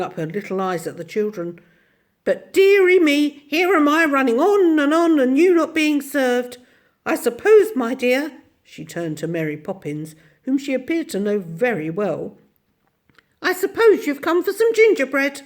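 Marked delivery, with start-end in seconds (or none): 2.2-8.3 put-on high, bright old little woman voice; tiny ancient shopkeeper. Mrs Corey fusses. 13.4-15.4 put-on high, bright old little woman voice; tiny ancient shopkeeper. Mrs Corey to Mary Poppins.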